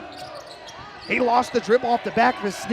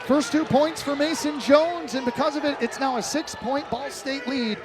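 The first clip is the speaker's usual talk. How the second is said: excited call; 5 semitones higher than usual. Real, not acted. Call after a made fadeaway.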